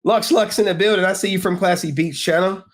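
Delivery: hype call-out. Real, not acted. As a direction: hype up the chat. Calling out to chat.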